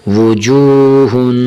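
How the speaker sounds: وجوہن with a thick, full ہ, not light; heavy h. Shown as a demonstration. Teacher reading وجوہن with a thick ہ. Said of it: "حرف ہا کو ہمیشہ موٹا کر کے پڑھیں گے".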